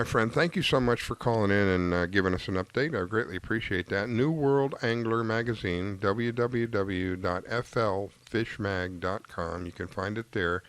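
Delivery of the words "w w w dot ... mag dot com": slow spelled-out address. Shown as a demonstration. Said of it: "host reads out the web address".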